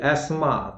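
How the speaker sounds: एस्मा in two syllables; falling 'as-maa' without 'th'; careful model of एस्मा; correct pronunciation. Shown as a demonstration. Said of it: "उच्चारण करके भी आप लोग देखिए".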